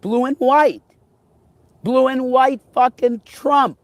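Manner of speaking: high excited exclamation. Real, not acted. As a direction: gasp it out in awe. Sure the plane is Trump's.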